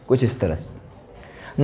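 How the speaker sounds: slow, soft demo of the bent u sound; demonstrating the sound. Shown as a demonstration. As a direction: draw out कुछ इस तरह से slowly and softly. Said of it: "यू को हल्का मोड़ देते हैं कुछ इस तरह से".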